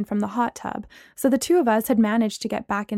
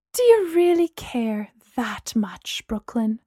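sage whisper; slower than usual. Acted. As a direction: ask it wisely, hushed. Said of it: "Gemma asked sagely".

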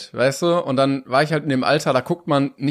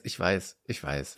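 whisper; 9 semitones lower, 12 dB quieter, slower than usual. Real, not acted. Sheepish admission.

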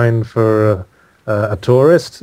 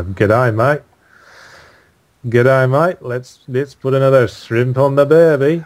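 put-on a rough stab at an Australian accent, G'day mate; lightly put-on Aussie twang; half-hearted Australian accent impression; 2 semitones higher than usual. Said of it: "Australian accent, I can just about do".

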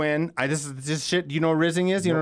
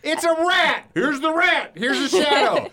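high excited rant; 10 semitones higher than usual. Real, not acted. Ranting over the groundhog lore.

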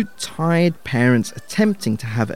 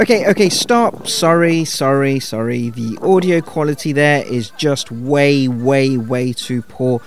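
shouting over wind; 3 dB louder than usual. Real, not acted. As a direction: raise your voice above the wind. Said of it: "over the howling wind".

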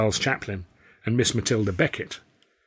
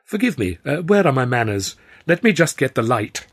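put-on higher, posh plummy English accent; 4 semitones higher, 6 dB louder than usual. Flustered Arthur answering the temptress in plummy English. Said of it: "in as plummy an English accent as I've ever heard myself using".

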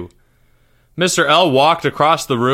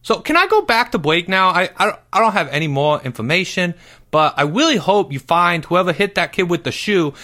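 put-on higher, stammering boy voice; flustered schoolboy Porge; 6 semitones higher than usual. A narrator's reading. Porge tries to get out of questioning, flustered. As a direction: babble excuses to get away. Porge babbles excuses to teacher.

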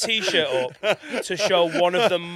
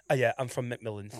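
serious woman impression; 6 semitones lower, 6 dB quieter than usual. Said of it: "Did she have a lisp like that?".

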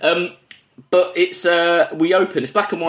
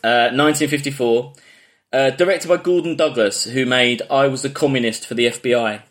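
in a bean can. Real, not acted. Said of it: "like a bean can to me".

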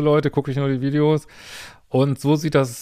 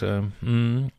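usual speaking voice

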